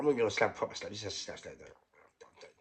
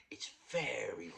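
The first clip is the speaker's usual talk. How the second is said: whispering; 5 dB quieter than usual. Real, not acted. Whispered emphasis mid-speech.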